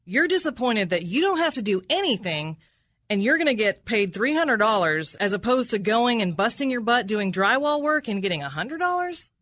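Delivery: incredulous, accusatory cross-examination; pointed courtroom disbelief; combative rephrasing. Real, not acted. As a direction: throw the answer back as a challenge. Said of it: "rephrased in a very combative way".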